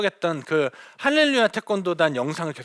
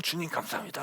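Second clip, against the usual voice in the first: much softer, a hushed, laughing aside to God; inner thanks; 2 semitones lower, 14 dB quieter than usual. Retold or imitated. Missionary voicing her inner prayer during the scolding, softly with a laugh. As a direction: whisper a secret thank-you under her breath. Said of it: "속으로는".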